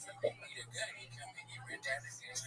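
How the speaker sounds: lightly voiced small-town redneck; a hint of a proud local showing off his town; mock-cheerful hick bragging about the gun library. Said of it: "I started talking in that voice".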